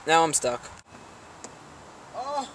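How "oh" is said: surprised. Real, not acted. Stumbles on the stairs.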